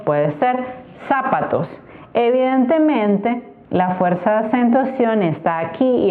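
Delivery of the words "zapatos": "zapatos" stressed on the first syllable, ZA; falsche Anfangsbetonung. Shown as a demonstration. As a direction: wrongly hit the opening ZA of "zapatos". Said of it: "acentuando las distintas sílabas".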